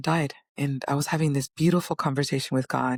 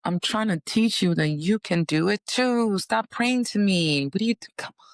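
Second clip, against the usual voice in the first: higher, pleading voice, slowing on the plea; Jesus pleading; 4 semitones higher than usual. Retold or imitated. Jesus telling followers to stop worshipping him, higher and pleading. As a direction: beg them to stop praying to him. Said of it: "And he's like".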